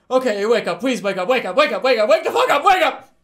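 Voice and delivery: escalating panicked shout, half laughing; desperate yelling. Retold or imitated. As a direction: voice climbing into a frantic shout. Begging himself to wake.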